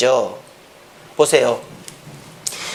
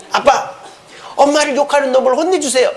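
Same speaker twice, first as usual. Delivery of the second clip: lightly acted pleading daughter, higher; 살로메; 5 semitones higher than usual. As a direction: wheedle daddy in a raised voice. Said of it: "이 살로메가". (살짝 높인 목소리로 아빠에게 조르는 딸)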